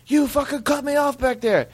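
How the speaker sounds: high-pitched mock yell of an angry driver; imitated yelling. Angry driver yelling through his window at Jeremy, mock yell. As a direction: yell it like an outraged motorist. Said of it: "yelling at me through his window".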